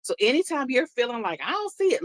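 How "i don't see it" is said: mock doubt. Voicing doubtful friend.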